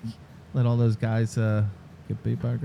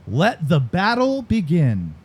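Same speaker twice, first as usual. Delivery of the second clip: slow, drawn-out ad tagline; announcer-style slogan, stretched out slowly; commercial voice; slower than usual. Retold or imitated. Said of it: "I even said it like the commercial".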